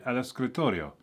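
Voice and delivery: "El escritorio" in a careful Spanish accent, rolled r; imitating a Spanish speaker's accent. Shown as a demonstration. Learner showing how to sound Spanish, in Spanish accent. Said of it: "you're trying to do an accent".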